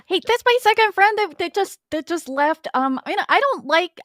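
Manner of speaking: put-on high, worried, childlike friend voice; Arnold voice. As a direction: whine it out like a lonely kid. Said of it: "Arnold is gonna be like".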